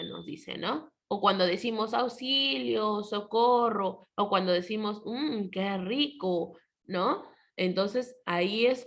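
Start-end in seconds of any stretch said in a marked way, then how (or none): 1.9-4.1 mild, slow mock cry for help; exclamation. Shown as a demonstration. Teacher gives pupils an example, mildly exclaiming. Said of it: "signos de exclamación". 5.0-6.6 slow, savoring mock exclamation. Shown as a demonstration. Teacher shows pupils an example, savoring exclamation. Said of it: "signos de exclamación".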